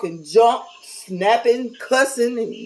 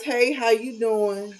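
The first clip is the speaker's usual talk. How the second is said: nice; 3 dB quieter, slower than usual. Retold or imitated. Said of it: "So you still try to be nice".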